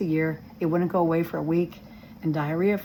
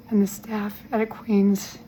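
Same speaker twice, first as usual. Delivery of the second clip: on the verge of tears; 3 semitones higher, slower than usual. Real, not acted. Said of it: "I'm gonna start crying".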